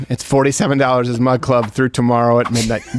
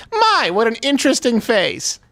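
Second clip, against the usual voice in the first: Betty White impression; 8 semitones higher than usual. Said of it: "she just goes".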